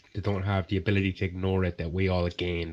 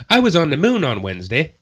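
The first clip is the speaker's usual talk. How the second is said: high, loud put-on announcement; hammed-up boast; mock boasting; 7 semitones higher, 6 dB louder than usual. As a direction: proudly announce a tall tale. Acts out a lying Scientologist boasting.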